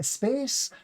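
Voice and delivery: put-on high "space" as eh-space, Spanish learner accent; Spanish-speaker accent. Teacher demonstrating the same mistake, Spanish accent. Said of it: "number one Spanish-speaking English mistake".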